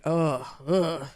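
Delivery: imitated queasy groans; low, drawn-out ugh of regret; hungover groan. Hungover worker at the back of the booth, groaning.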